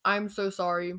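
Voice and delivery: chewing while talking; mouth full. Real, not acted. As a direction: talk through a mouthful of food. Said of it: "If you hear me chewing".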